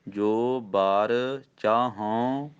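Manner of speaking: ਜੋ ਬਰ ਚਾਹੂੰ drawn out with a nasal ਚਾਹੂੰ; teacher models the pause; very slow recitation. Shown as a demonstration. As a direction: recite ਜੋ ਬਰ ਚਾਹੂੰ very slowly, then stop. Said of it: "ਇੱਥੇ ਵਿਸਰਾਮ".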